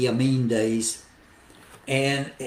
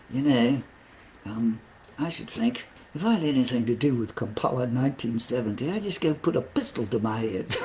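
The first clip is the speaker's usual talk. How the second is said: put-on light Scottish accent, half laughing; a hint of a Scottish brogue. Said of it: "in his Scottish accent".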